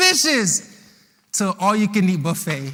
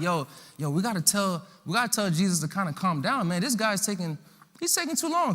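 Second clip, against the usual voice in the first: softer, conspiratorial aside; hushed huddle; 6 dB quieter than usual. Acted. Disciples quietly plotting to calm Jesus down.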